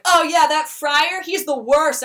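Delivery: mock eager snitch; eager gossip. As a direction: dish the dirt gleefully, drawing out the oh. Lucio eagerly badmouthing the friar.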